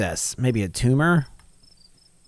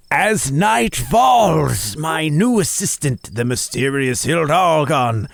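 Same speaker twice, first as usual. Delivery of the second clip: slow, showy host intro, pitched up; dramatic monster-hunter show opener; YouTube host voice; 3 semitones higher, slower than usual. Acted. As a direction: present it like a cryptid-hunting show host. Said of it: "that's my voice I do for my YouTube channel".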